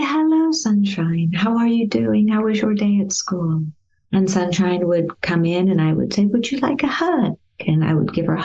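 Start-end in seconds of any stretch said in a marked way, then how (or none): 0.0-3.6 put-on cheerful, caring hello to a child home from school; warm greeting. Shown as a demonstration. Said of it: "let me give you an example of how I might, at this time in my life, treat a Sunshine". 6.3-7.4 tender offer. Shown as a demonstration. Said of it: "let me give you an example of how I might".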